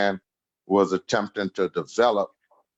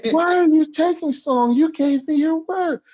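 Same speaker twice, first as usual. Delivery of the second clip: mock scolding. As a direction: whine at him like an outraged elder.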